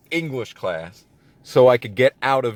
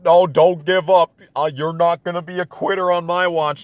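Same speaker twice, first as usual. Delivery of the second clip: mock pep-talk coach, higher and louder; 7 semitones higher, 4 dB louder than usual. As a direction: parody the gung-ho coach yelling encouragement. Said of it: "even the whole".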